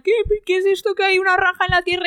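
high, eager puzzled question; excited question. Retold or imitated. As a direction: urge them to look. Quoting her own excited theory.

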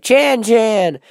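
loud, high name call; excited mock call. Vlogger imagining greeting the goth kid, loud high call. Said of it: "I'm gonna be like".

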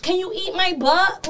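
timid request. Retold or imitated. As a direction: ask it shyly and slowly. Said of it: "you don't ever ask the bitch".

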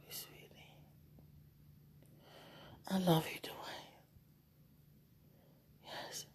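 fading sleepy whisper; drifting into sleep, barely audible; nodding off. Real, not acted. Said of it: "I'm so relaxed".

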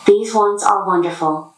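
robot voice. Real, not acted. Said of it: "robot companion here".

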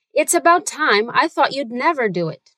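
words run together smoothly; linked words. Shown as a demonstration. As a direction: link every word into the next. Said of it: "One more time, linking all the words".

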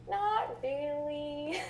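slow, high, laughing reply; waitress voiced chuckling slowly. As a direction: let a chuckle run through it. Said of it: "she chuckled".

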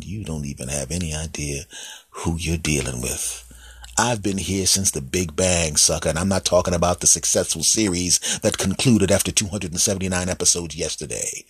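time itself sneering at you; menacing time. Acted. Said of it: "time sitting there going".

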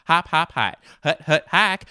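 loud, high quarterback cadence; snap count. Pretend. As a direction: bark it like calling a play at the line.

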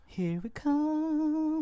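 high, very slow hype call; hyping up the Sixers, drawn out and high; hyped announcement. Acted. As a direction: drag it out like an arena announcer.

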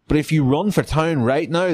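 lightly put-on Southern accent; Frank Underwood accent. Officer giving the captive a choice, light Southern accent. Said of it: "That's a Frank Underwood accent".

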